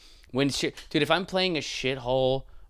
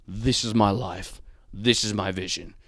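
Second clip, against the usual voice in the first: mock pretentious; 3 semitones lower than usual. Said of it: "I'm like".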